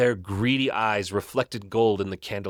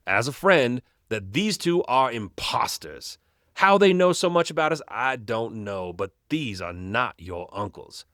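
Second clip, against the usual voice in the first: lightly voiced grave old doctor, warning firmly; a hint of a stern friend, slowing as he warns; understated serious warning from an old doctor; stern family doctor.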